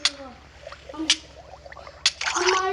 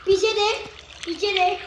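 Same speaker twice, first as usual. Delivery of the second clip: urgent warning shout; 2 semitones higher than usual. Real, not acted. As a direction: yell the warning to your friend. Warning teammate of attacker behind.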